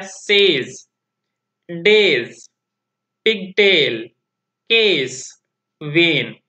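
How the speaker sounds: teacher modelling each word slowly and clearly; model words for the A sound. Shown as a demonstration. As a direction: say सेज, डेज, पिगटेल, केस, वेन each apart, clearly, with a falling end. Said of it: "उनकी sound को आपने ध्यान से सुनना है". (शिक्षक का हर शब्द साफ़-साफ़ बोलकर दिखाना)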